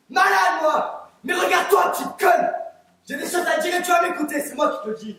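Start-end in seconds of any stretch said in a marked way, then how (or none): 0.1-1.1 indignant outburst. Acted. Repeats the word, now indignant. 1.2-2.5 contemptuous insult. Acted. Insults a fellow juror.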